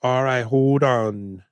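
put-on slow, drawn-out Jamaican accent; slow bad Jamaican accent. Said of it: "Denzel would go".

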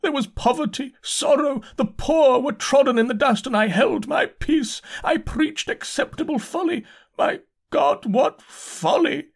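high-pitched frenzied sermon of repentance; loud raving. A narrator's reading. Insane curate confessing his sins to God, loud high raving. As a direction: rave aloud like a crazed preacher. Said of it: "began to talk aloud instead of whispering".

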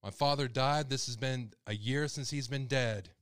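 worked up over a personal loss; emotional. Real, not acted. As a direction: insist on it, still upset after an outburst. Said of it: "Sorry, I get emotional".

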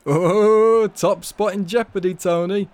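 teasing Janice. A narrator's reading. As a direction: needle him with a laugh. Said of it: "Janice laughed".

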